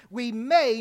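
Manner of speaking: "may" pressed firmly; stress on MAY. Real, not acted. Preacher repeating his qualification to the church, stress on "may". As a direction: lean on the word "may". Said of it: "I do put emphasis on the word may".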